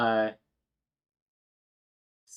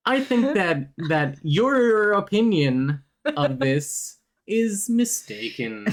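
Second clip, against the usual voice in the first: a put-on Liverpool accent, higher and slowed; 7 semitones higher than usual. Teasing his friend V in a Liverpool accent. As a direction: drawl it out in mock Scouse. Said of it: "got a little lost on the accent".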